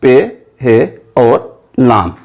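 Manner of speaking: हे and लाम named slowly, one by one; slow letter naming. Shown as a demonstration. Teacher naming letters slowly for the class. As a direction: spell out the letters at a careful dictation pace. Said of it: "इसमें तीन मुफरद हरूफ हैं".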